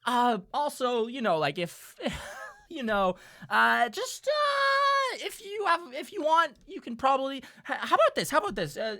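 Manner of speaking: bribe the players in a terrified squeak; nervous elf dealer. Acted. Elf dealer with a chain at his neck, nervously bribing players. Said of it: "And he goes".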